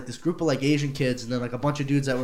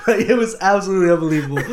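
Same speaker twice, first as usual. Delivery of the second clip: laughing, fast; faster than usual. Real, not acted. Laughing through retold panic.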